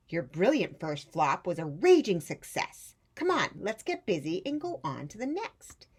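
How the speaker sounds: lightly voiced high, eager aunt; encouraging old aunt. Great-aunt reassuring Rosie that it flew, lightly voiced. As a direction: cheer her on gently. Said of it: "said her great aunt".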